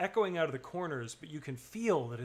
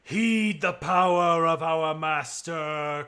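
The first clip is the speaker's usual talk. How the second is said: loud, very slow, godlike boom; slow booming divine voice echoing inside a skull; booming echoing command; 3 semitones higher, 11 dB louder, much slower than usual. Acted. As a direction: thunder it from every corner. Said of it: "voice this time echoes out".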